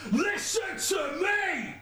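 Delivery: high, drawn-out chorus shout; shouted hook. Shown as a demonstration. Rapper trying the chorus again, shouted long. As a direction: stretch the hook out in a high yell.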